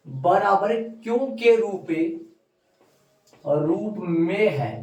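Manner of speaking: measured classroom dictation; slow dictation. Real, not acted. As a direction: spell out the equation slowly. Dictating the equation to write.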